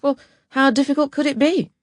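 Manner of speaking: high-pitched, airy self-assurance; breezily optimistic. Acted. Eternal optimist to herself before a first typing job, breezy. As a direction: think it aloud, high and carefree. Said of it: "being the eternal optimist, I thought to myself".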